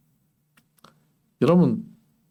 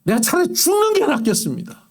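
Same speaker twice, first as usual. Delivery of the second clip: Jonah's despairing plea; 8 semitones higher than usual. Retold or imitated. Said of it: "요나도 그랬습니다".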